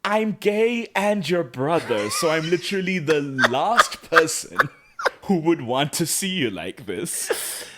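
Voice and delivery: laughing mock delivery of Luke's line. Sister hears brother announce it, mocked with laughter. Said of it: "And Luke goes".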